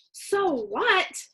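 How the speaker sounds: high protesting so what; indignant cry. A narrator's reading. Boy fires his sister's words back, high and indignant. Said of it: "I cried".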